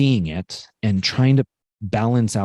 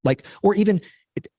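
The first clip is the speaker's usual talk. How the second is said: gentle, higher-pitched reassurance to oneself; self-soothing; 9 semitones higher, faster than usual. Retold or imitated. Speaker consoling themself after a mistake, tenderly higher-pitched. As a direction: comfort yourself in a lifted, soothing voice. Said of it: "like, hug myself and be like".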